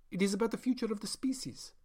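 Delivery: hushed intense whisper; whispered conviction. Acted. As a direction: breathe it as a secret. Doctor stresses a grand claim.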